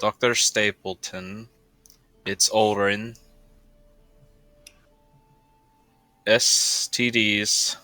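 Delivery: slow, word by word, spelling out a sending message; measured dictation; dictating a message. Acted. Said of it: "all right, twenty-five words".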